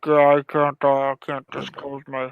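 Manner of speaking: lightly voiced mysterious figure; a hint of a secretive low voice; shadow voice. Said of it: "the shadow voice".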